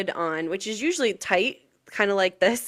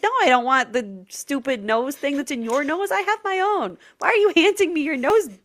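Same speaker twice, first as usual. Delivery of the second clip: disgusted refusal; 5 semitones higher than usual. Retold or imitated.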